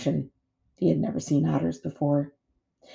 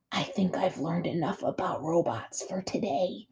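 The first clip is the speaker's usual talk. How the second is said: soft, unvoiced little whisper; whispering gosling; 8 dB quieter than usual. A narrator's reading. Gosling whispering back to his mother, whispering. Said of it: "he whispered back".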